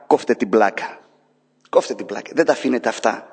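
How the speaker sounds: God scolding. Acted. God telling the crying people to stop, low firm voice. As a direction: cut them off, low and firm. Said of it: "Και λέει ο Θεός".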